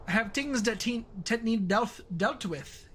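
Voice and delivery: Scottish accent. Shown as a demonstration. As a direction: have a rough stab at a Scottish accent. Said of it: "if you were doing the Scottish accent".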